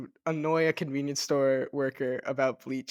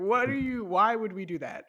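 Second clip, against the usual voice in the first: higher-pitched mock disbelief; incredulous; 5 semitones higher than usual. Crew member questioning the guide's odd request, incredulous. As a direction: object as if baffled by the idea.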